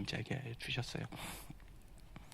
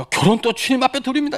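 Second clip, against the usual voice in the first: higher, louder pious declaration; holy solemn vow; 10 semitones higher, 7 dB louder than usual. Retold or imitated. Believer offering marriage to God in holy tone. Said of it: "거룩하게 이렇게".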